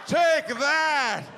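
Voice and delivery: high gloating shout; triumphant taunt. Acted. Husband taunts the dog owner, high and gloating. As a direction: gloat like a cartoon victor.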